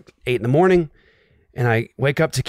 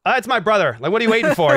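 high, eager imitation of the boy; lightly voiced excited boy; eager kid brother; 9 semitones higher, faster than usual. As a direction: pitch up to play an excited kid. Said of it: "Stellar goes".

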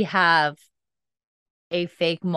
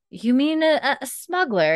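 acted Claire; 7 semitones higher than usual. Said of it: "And Claire's like".

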